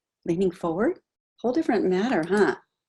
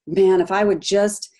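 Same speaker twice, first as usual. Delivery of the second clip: self-blaming. Retold or imitated. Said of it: "and you're blaming yourself".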